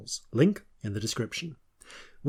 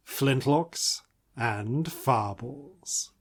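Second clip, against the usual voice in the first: announcer voice; 3 dB quieter, much slower than usual. Acted. Announcing the show title.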